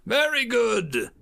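slow, loud approving words; instructor praise. Acted. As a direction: reward the right answer. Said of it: "he said".

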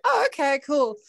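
a high thrilled player reply; high mock player.

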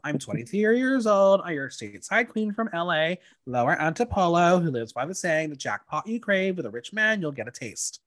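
mock Valley girl gushing, light and playful; a light take on a Valley girl intro. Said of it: "Eva in full Valley Girl goes".

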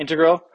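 "Integral" with the stress on the middle syllable, in-TEG-ral; wrong stress. Shown as a demonstration. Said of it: "The emphasis on the wrong syllable".

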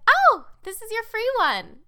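high, loud mock cashier voice; cashier quote. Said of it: "she was like".

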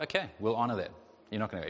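God's calm reply. Acted. God to the Israelites, calm and even. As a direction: let it go gently. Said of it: "I'd say it with a different tone".

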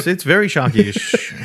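slow words through a chuckle; drawn-out, chuckling delivery; amused laughing. Real, not acted. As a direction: laugh while admitting how bad it is. Both joke about shark waters.

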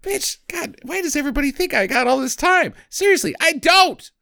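high, complaining mock player; whiny mock rant. Aging player complaining to his wife, high mock whine. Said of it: "he's like".

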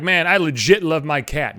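imitating someone saying I legit love my cat, slowly; mock casual line; mocking quote. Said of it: "You don't say, like".

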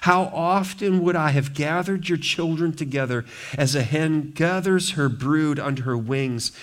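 a touch of lament; Jesus crying out. Acted. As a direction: mourn the city aloud. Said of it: "he cries out".

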